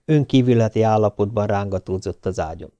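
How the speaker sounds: ordinary delivery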